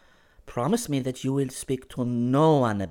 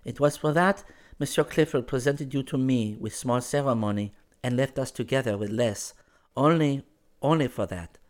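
put-on higher, urgent girl's voice; almost feverish; 6 semitones higher, 4 dB louder than usual. A narrator's reading. Girl explains bohemian ways to a newcomer, almost feverishly. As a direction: explain eagerly in a raised character pitch. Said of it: "she began talking almost feverishly".

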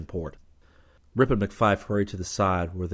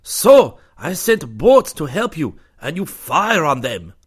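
loud, higher, slow angry outburst; blurting accusation; 9 semitones higher, 11 dB louder, slower than usual. A narrator's reading. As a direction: blurt out the charge in anger. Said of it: "The Connie blurted".

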